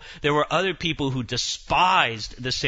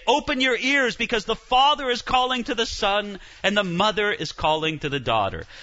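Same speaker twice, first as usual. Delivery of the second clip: higher, raised pulpit call; lightly voiced indulgence preacher; preacher's call; 4 semitones higher than usual. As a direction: summon them to listen. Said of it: "And then they would say".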